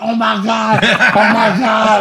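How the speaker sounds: high, laughing, stretched out oh my God; excited squeal. Retold or imitated. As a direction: squeal with giddy disbelief. Retelling his excited reaction.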